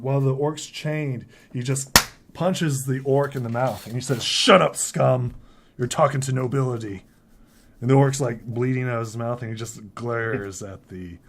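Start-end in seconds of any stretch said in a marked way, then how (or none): 4.2-7.0 barked order. Acted. Sharpshooter silences chained orc, loud angry bark. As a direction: snap it hard at a prisoner.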